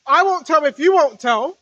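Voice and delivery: mock voice of a secret-keeping spirit. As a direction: play the conspiring voice of that spirit. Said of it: "That type of spirit".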